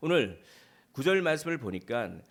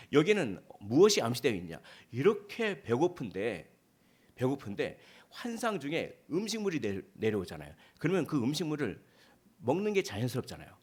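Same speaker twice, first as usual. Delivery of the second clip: normal talking voice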